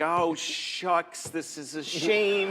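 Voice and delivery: drawn-out, mild mock anger kept clean for the kids; held-in anger. Dad cursing mildly in front of his kids, held-in anger. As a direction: stretch out each word, acting politely furious. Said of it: "And inside I'm just steaming".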